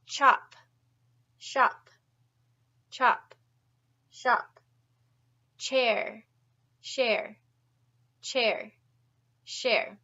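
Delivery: loud, crisp "Chop" and "Shop", "Chair" and "Share" said one by one; teacher calls out "Chop", "Shop", "Chair", "Share" for the class to repeat; clear drill demo. Shown as a demonstration. Teacher drilling the class: loud, distinct "Chop" and "Shop". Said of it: "say it with me".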